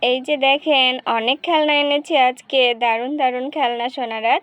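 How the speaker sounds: lightly voiced street hawker; toy seller. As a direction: show off your toys to the kids. Seller shows toys.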